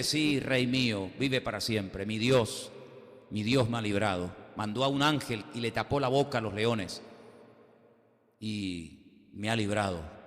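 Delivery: a calm Daniel reassuring the anxious king. Retold or imitated. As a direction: answer peacefully from the den. Daniel answers king calmly.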